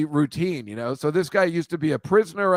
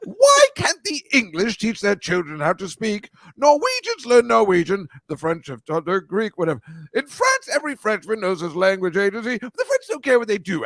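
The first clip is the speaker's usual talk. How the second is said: higher lightly hammed posh stage talk-singing; Henry Higgins; 4 semitones higher than usual. Host imitating My Fair Lady song, hammed stage declaiming. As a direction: declaim it like a musical number. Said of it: "this guy won an Oscar".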